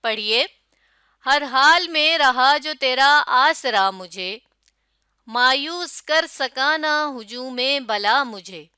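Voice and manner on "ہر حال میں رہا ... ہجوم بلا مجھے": steady song-like verse; rhythmic recitation. Shown as a demonstration. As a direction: read the couplet with a lilt. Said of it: "کیا اس شعر میں لے موجود ہے". (لے کے ساتھ شعر)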